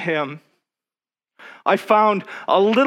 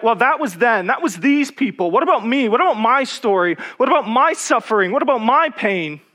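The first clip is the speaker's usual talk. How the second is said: questioning doubt; 5 semitones higher than usual. Retold or imitated. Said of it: "I still was like".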